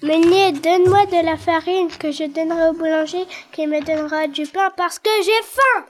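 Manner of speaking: breathless, rushed plea after running; out of breath. Acted. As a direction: gasp it out fast, winded from the run. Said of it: "Tout essoufflé, il dit".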